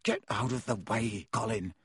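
contained irritation; mildly exasperated command; angry. A narrator's reading. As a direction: order him off with understated anger. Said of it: "said Harry angrily".

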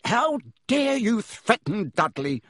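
a high, slow mock roar; furious uncle roaring at Harry. A narrator's reading. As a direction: roar it while pounding the table. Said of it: "roared Uncle Vernon".

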